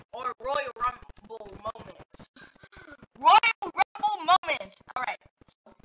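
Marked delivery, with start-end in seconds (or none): 0.1-2.3 low, soft and slow; subdued musing. Real, not acted. Tries out the title quietly. 3.2-4.8 slow, full-voiced proclamation; big title announcement. Real, not acted. Then proclaims the same title.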